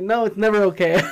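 said through a laugh; girlfriend's scolding, broken by laughter; laughing reply. Retold or imitated. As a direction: laugh as you scold him.

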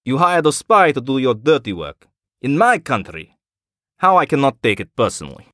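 cutting, proud Russian colonel; Ivanov's voice. Acted. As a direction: sneer at his failures. Ivanov accuses Emir.

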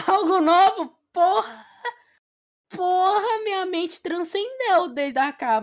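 high loud exclamation; over-the-top excited. Acted. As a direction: blurt it out way up high. Mock-overblown answer to question.

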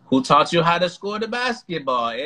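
mock Canadian dad talking hoops; white Canadian man. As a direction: lightly put on a Canadian accent, tagging the eh. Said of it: "sounds like a white Canadian man".

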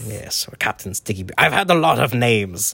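a hammed-up pirate captain; lightly voiced pirate. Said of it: "speak to Pirate Briggs".

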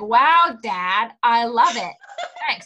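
dry, sarcastic thanks. Retold or imitated. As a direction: say it with heavy sarcasm. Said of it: "so sarcastic to me".

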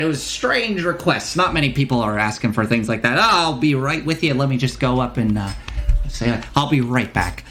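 put-on obliging shop proprietor with a wandering accent; lightly voiced shopkeeper. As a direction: play a helpful merchant heading off on an errand. Game master voices shopkeeper.

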